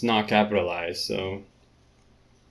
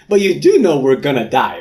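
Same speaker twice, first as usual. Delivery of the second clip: louder, blunt mocking; 4 semitones higher, 9 dB louder than usual. Reader mimicking Rinda's grim news, loud mock. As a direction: bluntly throw it back.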